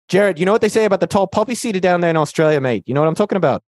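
put-on Aussie banter; Australian accent. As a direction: tease in a mock Australian accent. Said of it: "I'll do my Australian accent then".

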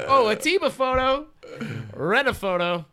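high, loud mock awe; acted admiration. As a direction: call it out high, as if dazzled. Acted admiring others' photos.

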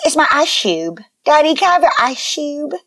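imitating a toddler, "ice cube" as eye-shoob; little kid asking, "ice cube" slurred to eye-shoob; toddler pronunciation. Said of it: "says ice cube like this".

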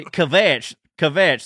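"kvetch" in a Southern accent. Shown as a demonstration. Southerner showing it sounds bad, Southern-accented "kvetch". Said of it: "that don't sound good when it".

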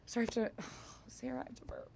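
hushed, unvoiced aside; whispering. Real, not acted. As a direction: whisper it so nobody hears. About to burp, whispers aside.

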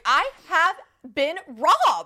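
mock grand declaration; dramatic victim. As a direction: ham up the tragedy. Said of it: "And I was like".

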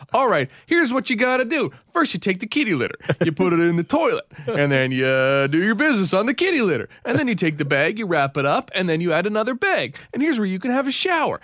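high, eager mother-in-law instructions; lightly voiced keen mother-in-law; excited mother-in-law. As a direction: gush it out like she loves the plan. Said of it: "She's like".

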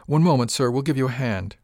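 calling down. Acted. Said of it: "heard Miss Maloney call down".

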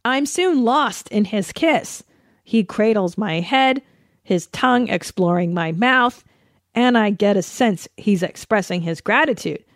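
lightly hammed-up romance novel narration; mock-dramatic reading. Reading Fifty Shades aloud to listeners, mock-dramatic. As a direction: read it as steamy fiction, mildly hammed up.

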